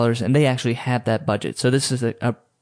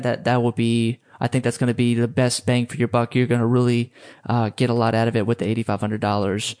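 hedging, stammering, filling the silence; nervous rambling. Shown as a demonstration. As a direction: talk yourself out of the price. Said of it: "Or how does this sound?".

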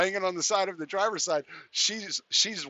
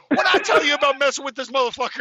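high, loud, fast imitation; rapid-fire retold bawling-out; mock scolding yell; 9 semitones higher, 9 dB louder, faster than usual. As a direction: yell it over your shoulder as a hammed-up telling-off. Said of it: "he turns around".

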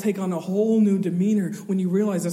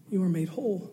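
usual speaking voice

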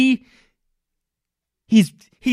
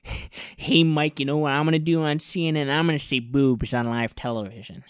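hushed, quick, scheming whisper; sneaky whisper; 4 semitones lower, 4 dB quieter than usual. Retold or imitated. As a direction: whisper it like a secret plan. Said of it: "was texting Mike Cernovich".

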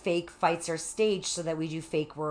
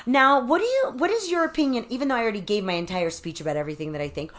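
mock heckler's question; 5 semitones higher, 3 dB louder, faster than usual. Quoting heckler's question at event.

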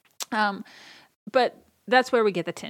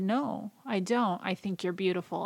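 sincere uncle. Retold or imitated. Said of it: "it was so sincere".

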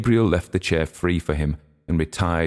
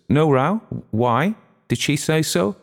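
surprised; 11 semitones higher, 3 dB louder than usual. Acted. Wife questions sharply.

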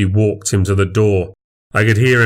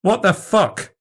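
squawked; 11 semitones higher than usual. A narrator's reading. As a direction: squawk it in disbelief. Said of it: "he squawked".

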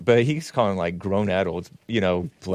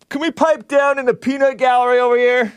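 high put-on scold at the peanut gallery; mock scolding voice; 11 semitones higher, 4 dB louder than usual. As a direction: play a fussy schoolmarm shushing the room. Shushing himself in a put-on voice.

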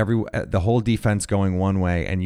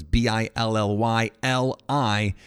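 spelling slowly; slower than usual. Shown as a demonstration. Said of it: "The I is silent".

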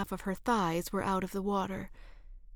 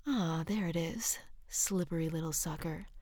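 playful whisper; 5 dB quieter than usual. Acted. Teasing while reaching for soap.

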